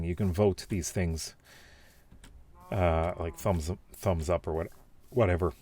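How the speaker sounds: talking through the hiccups; speech with hiccups. Real, not acted. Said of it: "Sorry, I've got the hiccups now".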